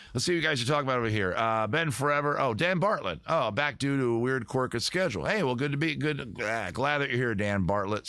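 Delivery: quick, upbeat rush through the chat; talking fast. Real, not acted. Streamer catching up on chat, talking fast. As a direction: race through the viewer messages. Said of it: "Sorry, I'm talking so fast".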